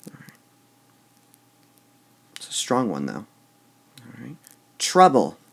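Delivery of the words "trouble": Trouble with TROU loud, then falling; stress on first syllable. Shown as a demonstration. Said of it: "You wouldn't say".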